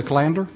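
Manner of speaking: calendar said kuh-LAN-der; German boss's mispronunciation. Retold or imitated. German boss asking about appointments, calendar as kuh-LAN-der. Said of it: "I didn't know what a calendar was".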